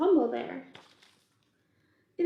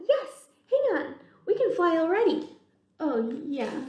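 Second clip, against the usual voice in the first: chatty bug voices. Acted. Bugs debate eating the peach.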